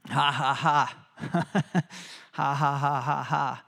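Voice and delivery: loud, hearty demonstration laugh; joyful laughter. Shown as a demonstration. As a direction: laugh out loud on purpose to show holy joy. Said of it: "I think I just need to laugh".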